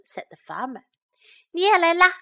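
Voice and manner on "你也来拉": raised, higher-pitched call; calling for help. A narrator's reading. Farmer urging the dog to join in, calling out. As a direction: call out to get a helper pulling. Farmer calls helper to pull.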